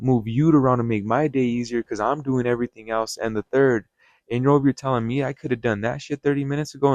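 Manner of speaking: mildly heated re-enactment of chewing out an employee; losing it. Retold or imitated. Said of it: "But I lost it".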